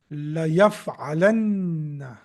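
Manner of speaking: La yaf'alanna said slowly, syllable by syllable; slow model word. Shown as a demonstration. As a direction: spell out La yaf'alanna slowly for the class, stressing the double n. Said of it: "that will be formed after you add these two letters".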